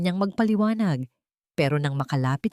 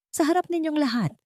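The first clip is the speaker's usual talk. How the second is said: clear ringing voice; 10 semitones higher than usual. A narrator's reading. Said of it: "sabi niya sa malinaw at matunog na boses".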